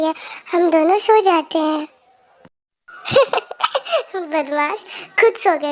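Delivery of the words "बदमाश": fond laugh. Acted. Laughs at bunny falling asleep.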